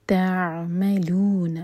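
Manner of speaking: voiced, very slow tajweed recitation; slow Quran recitation. Shown as a demonstration. Teacher recites the verse to show the rules, slowly. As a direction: draw each syllable out carefully. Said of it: "عین پر تھوڑا سا time extra".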